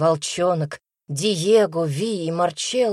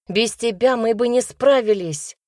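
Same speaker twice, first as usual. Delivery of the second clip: smiling; 6 semitones higher, 4 dB louder than usual. A narrator's reading. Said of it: "улыбнулась Шанни".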